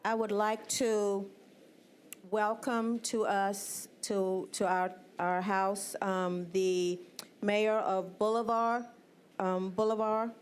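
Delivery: talking round a peppermint; words slurred by candy in mouth; mouth full. Real, not acted. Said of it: "I have peppermint in my mouth".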